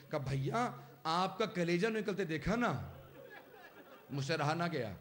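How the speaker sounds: plaintive elegy with swelling cries; lamenting recitation. Acted. Brother asking weeping brother who should cry, lamenting. Mourning sermon, voicing grieving brothers.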